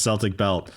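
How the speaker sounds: "Celtic" begun with an S sound; Celtic with C as in "cell"; soft C. Shown as a demonstration. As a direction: say Celtic as SEL-tick. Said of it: "It's pronounced".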